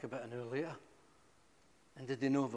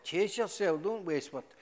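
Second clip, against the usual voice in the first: louder, higher exasperated brush-off; louder mock impatience; exasperated police; 5 semitones higher, 5 dB louder than usual. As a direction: throw it back like a fed-up officer. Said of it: "they went".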